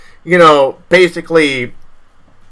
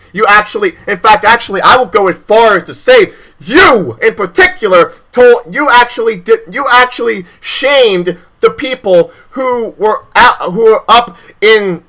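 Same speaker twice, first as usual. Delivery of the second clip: heated; 4 semitones higher than usual. Real, not acted. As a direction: build the anger at the politician. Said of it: "I'm sorry I got heated".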